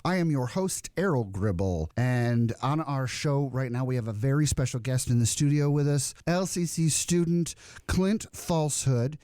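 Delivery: lightly put-on radio host announcing a guest; show host intro. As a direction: open the show like a local host, unhurried. Plays a show host opening the segment.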